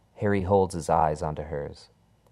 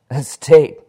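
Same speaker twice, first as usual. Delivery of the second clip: scoffing laugh; 8 semitones higher, 16 dB louder than usual. Acted. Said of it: "laughs the featureless man".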